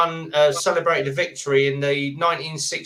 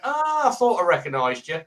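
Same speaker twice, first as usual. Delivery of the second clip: mock Australian accent; 4 semitones higher than usual. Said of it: "people doing the accent".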